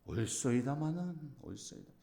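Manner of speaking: slow, humble, fading to a breath; humble answer. Retold or imitated. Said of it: "이렇게 했는데도". (겸손하게 낮추는 대답)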